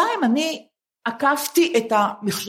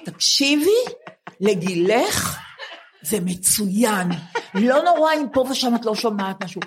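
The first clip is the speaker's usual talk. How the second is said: laughing while quoting. Retold or imitated. Quoting the hearing examiner.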